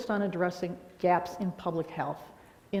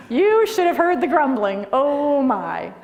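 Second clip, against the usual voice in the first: laughing; 6 semitones higher, 8 dB louder, slower than usual. Real, not acted. Laughing at memory.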